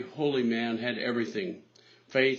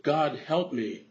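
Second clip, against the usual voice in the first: a mild cry for help, only a little raised; 3 semitones higher than usual. Acted. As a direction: call out to God in mild desperation. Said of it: "Bill cried out".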